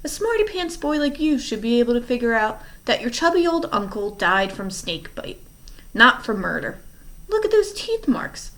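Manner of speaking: mocking. Villain taunting the orphans.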